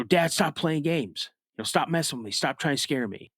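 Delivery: half-shouted plea to stop the prank; mild shout. Retold or imitated. Boy calling out to his dad in the woods, mild shout. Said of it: "I kinda shout out".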